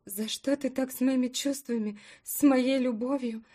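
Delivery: rising to a loud, high tearful cry; tearful outburst. Acted. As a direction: grief building into shouting. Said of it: "Эмоции взяли верх, подбородок задрожал". (слёзы переходят в крик)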